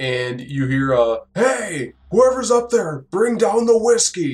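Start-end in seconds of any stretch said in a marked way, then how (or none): 1.3-4.3 rough, gruff voice pitched very high. Narrating a game scene, a voice calls up from the basement: gruff voice. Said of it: "You hear some like gruff voices talking from the bottom".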